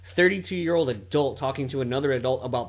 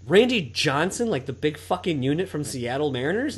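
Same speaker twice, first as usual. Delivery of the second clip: retold disbelief; 3 semitones higher than usual. Retelling his shock to the podcast co-host, mock disbelief. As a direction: replay the double take.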